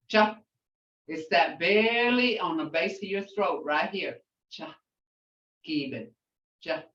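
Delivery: "Cha" with breath pushed from the base of the throat; breathy cha. Shown as a demonstration. Teacher showing the breath sound in "Cha". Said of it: "that breath".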